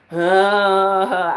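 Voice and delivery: long exasperated "uh"; frustrated groan. Acted. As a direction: let out a drawn-out groan of impatience. Acts out frustration at waiting.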